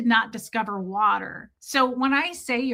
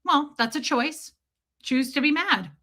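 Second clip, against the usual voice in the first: lightly mocked smug husband, slightly pitched up; imitated ex-husband; 3 semitones higher than usual. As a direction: imitate a dismissive partner, drawing it out. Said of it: "And he would go".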